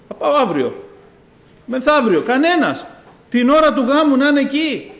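mock indignant, eager bride; lightly acted, insistent outburst; impatient bride. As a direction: protest as a bride who can't wait. Acted bride rejects teasing the groom.

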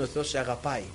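low, soft retold reassurance; tender reassurance. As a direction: gently pass on a loving message. Retelling God's loving message.

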